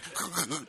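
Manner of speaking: soft, shuddering mock whimper; imitated quiet shaking sobs. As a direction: mimic silent, trembling crying. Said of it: "shaking, like".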